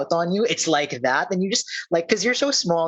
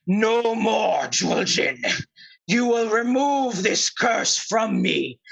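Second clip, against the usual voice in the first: raised, commanding bear voice; towering bear; 6 semitones higher than usual. Acted. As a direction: confront her as a towering, cursed bear. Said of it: "the bear, like, towering over you, says".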